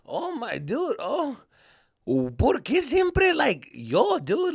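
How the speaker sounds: high, stretched-out whine; hammed-up tearful protest; mock crybaby. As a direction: whine in fake disbelief, dragging the words. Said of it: "I was freaking Mister Crybaby".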